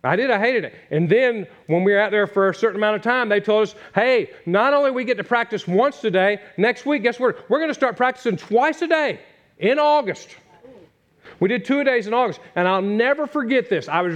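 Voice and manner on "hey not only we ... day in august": raised pitch, mock-cheery coach announcement; coach's announcement. Coach tells players about August two-a-days, mock cheerful. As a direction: sell the bad news like an upbeat coach.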